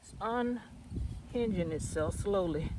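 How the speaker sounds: straining while digging; pushing through the strain of pulling; effort grunt. Real, not acted. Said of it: "I'm grunting, but this is not easy".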